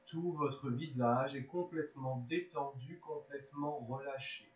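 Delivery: measured yoga nidra guidance with long pauses; unhurried, spaced-out relaxation voice; guided relaxation. Real, not acted. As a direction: guide them gently into rest, phrase by phrase.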